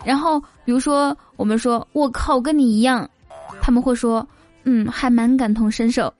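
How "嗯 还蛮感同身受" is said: Taiwanese accent. Shown as a demonstration.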